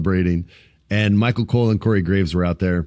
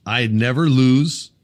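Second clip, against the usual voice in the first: Gunther boast; 3 semitones higher, slower than usual. Retold or imitated. Voicing Gunther's character boast.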